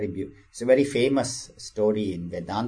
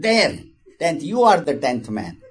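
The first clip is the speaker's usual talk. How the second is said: higher and louder, triumphant; emphatic declaration; 5 semitones higher, 4 dB louder than usual. Acted. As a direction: land the reveal like the stick's hard tap. Wise man hits tenth hard.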